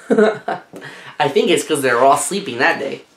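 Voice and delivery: chuckling through the words; amused aside with a laugh. Real, not acted.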